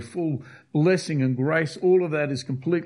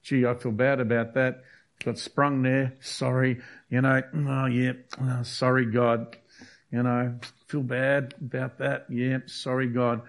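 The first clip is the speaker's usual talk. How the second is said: flippant apology. Retold or imitated. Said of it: "Worldly repentance is".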